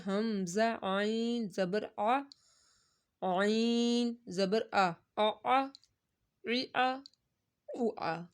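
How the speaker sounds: عین squeezed from mid throat; teacher shows students the throat عین; throat ain. Shown as a demonstration. آ with a tight throat catch. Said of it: "عین حلق کے درمیان سے".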